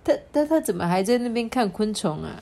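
fast, stammering puzzled question; puzzled classmate. Acted. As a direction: blurt it out in disbelief. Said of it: "还这样，诶，".

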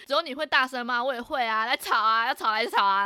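mild mock yell at the stranger; retold challenge. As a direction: dare them to keep arguing. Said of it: "我就超级无敌大声".

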